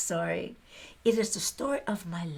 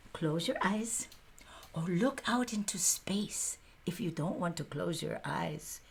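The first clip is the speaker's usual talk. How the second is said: soft invitation; 2 semitones lower, 5 dB quieter than usual. Acted. Storyteller settling the audience.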